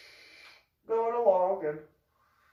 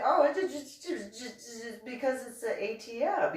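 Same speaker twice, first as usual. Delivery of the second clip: lightly acted sheepish stammer; mock flustered, halting explanation; 8 semitones higher than usual. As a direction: trip over your excuse, higher voice. Boyfriend flustered in retold quarrel.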